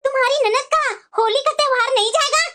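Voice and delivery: mildly indignant, incredulous repeat of the question. Acted. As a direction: press the daughter-in-law in disbelief.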